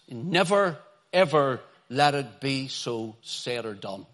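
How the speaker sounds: "Never, ever" hit hard; emphatic paraphrase. Retold or imitated. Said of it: "he would put it like this".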